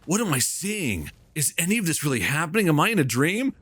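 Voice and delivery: mocking a game hero's stunned disbelief; mock awestruck. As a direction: play a wide-eyed main character doubting their eyes. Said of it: "main characters are like".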